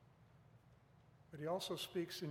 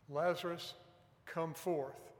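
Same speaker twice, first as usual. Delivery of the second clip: louder, measured command with a pause; 5 dB louder, slower than usual. Retold or imitated. Preacher quoting Jesus calling Lazarus from the dead, loud voice. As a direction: imitate a firm call to come out. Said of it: "He said in a loud voice".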